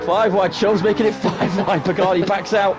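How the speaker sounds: excited high-energy race call; loud and rising with the chaos; motorsport commentator. Real, not acted. Live race commentary crash chaos.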